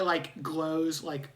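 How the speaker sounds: ordinary delivery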